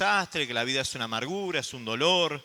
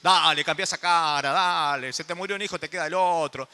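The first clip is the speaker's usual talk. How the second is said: louder, brusque "dale" nagging; pushy cheering up; 4 dB louder than usual. Retold or imitated. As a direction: shove a grieving friend to snap out of it. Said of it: "como hacemos nosotros". (empujón brusco y más fuerte para que deje de llorar)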